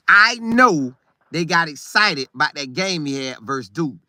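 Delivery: ordinary talk, nothing marked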